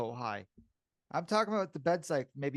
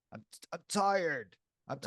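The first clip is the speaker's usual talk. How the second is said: Donald Trump; 3 semitones higher than usual. Acted. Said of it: "talk like Trump".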